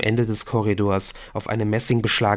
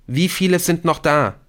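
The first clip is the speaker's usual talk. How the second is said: high, louder shouted question; calling after someone; 8 semitones higher, 5 dB louder than usual. A narrator's reading. Nick calls down to fleeing Rashid, calling out. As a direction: send the question down the stairwell. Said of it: "rief Nick ihm nach".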